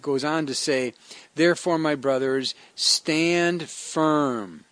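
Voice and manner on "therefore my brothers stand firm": slow, solemn scripture reading; measured preacher's reading. Acted. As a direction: read the verse out with weight. Reads the scripture passage.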